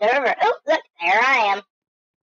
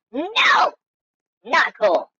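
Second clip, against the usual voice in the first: shocked no; much slower than usual. Real, not acted. Rejects the outfit.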